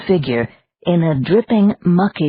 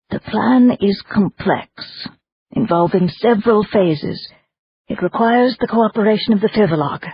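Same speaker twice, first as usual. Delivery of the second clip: lightly raised, formal lady's voice; measured, scheming noblewoman; Madame voice; 3 semitones higher than usual. Acted. Madame's long scheming speech.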